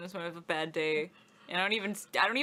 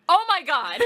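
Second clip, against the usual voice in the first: laughing oh my God; 9 semitones higher, 10 dB louder than usual. Retold or imitated. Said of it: "you're just like".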